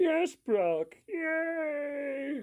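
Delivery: very high frog puppet voice, "yay" drawn out high. Showing off the one iconic voice the speaker can do, Kermit voice. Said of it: "the freaking Kermit voice. Like".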